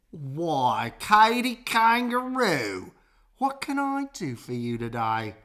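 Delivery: high, drawn-out greeting; a sugary crocodile hostess; friendly crocodile voice. A narrator's reading. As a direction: sweetly welcome the little kangaroo.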